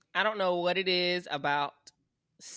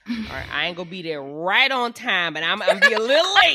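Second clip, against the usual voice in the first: sheepish excuse; 3 semitones higher, 9 dB louder than usual. Pretend. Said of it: "the peer pressure's gonna hit me".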